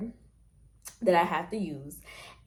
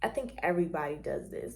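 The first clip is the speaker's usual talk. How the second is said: usual speaking voice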